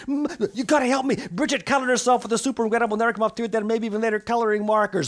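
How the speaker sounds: high, loud, fast pleading; frantic mother. Acted. Mother frantically begging the doctor for help. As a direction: beg the doctor in a rush.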